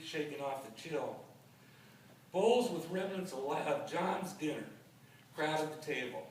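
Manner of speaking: measured poem recital, pausing after phrases; poetry reading. Acted. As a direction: read it out line by line as verse. Reads second poem aloud.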